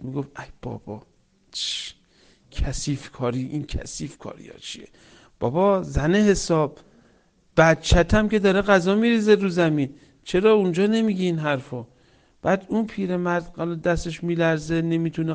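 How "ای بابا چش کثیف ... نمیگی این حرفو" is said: grumbled under the breath, rising to a mild scolding; retold annoyed wife. Wife scolding over the old father's spilled food, mildly angry. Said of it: "زن من عصبانی میشد".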